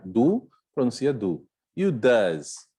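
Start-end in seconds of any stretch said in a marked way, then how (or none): 0.1-1.5 teacher demonstrating the sound of "do"; DO pronunciation demo. Shown as a demonstration. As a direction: say "Do" clearly with an oo vowel. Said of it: "Como é que pronuncia?".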